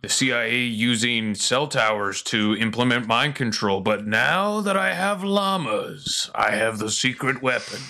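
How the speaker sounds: N=Alex Jones/public; Alex Jones impression. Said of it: "and Alex is like".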